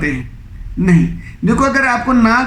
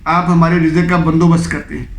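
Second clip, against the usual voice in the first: lower-pitched, mildly soothing plea; polite, gentle refusal; 5 semitones lower than usual. Acted. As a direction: ease gently into a courteous no. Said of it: "آپ ان کو بڑے آرام سے کہیں". (آرام سے، شائستہ لہجے میں)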